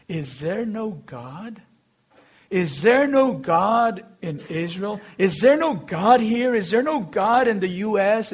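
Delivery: repeated questions building to a preacher's point; rhetorical preaching. Real, not acted. Preacher asks the congregation, rhetorical sermon questions. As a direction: press the congregation with each question.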